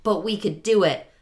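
put-on eager kids voice. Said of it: "And they're like".

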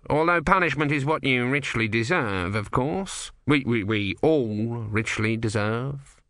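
slow, lightly pious stammer; a hint of sanctimony. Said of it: "he added piously".

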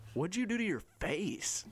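high, strained, incredulous question; imitated appalled coach.

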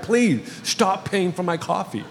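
softly but firmly scold; gentle serious scolding. Retold or imitated. Pastor asking coffee buyers to stop, gentle but serious scolding. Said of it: "scolding people in a very gentle but serious".

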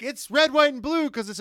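high, loud proud announcement; mock proud team boss. Mocking the Haas team about its colours, high proud voice. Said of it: "they're like".

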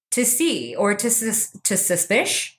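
halting stumble over SUS and SUSPISH; stuttering. Real, not acted. Speaker fumbling for the word suspicion, stuttering on suspish. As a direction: trip slowly over suspish, leaving it unfinished. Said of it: "are you having a stutter problem".

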